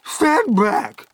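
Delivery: high, full-force warning shout. A narrator's reading. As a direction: shout them back from danger. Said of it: "Aunt Sponge shouted".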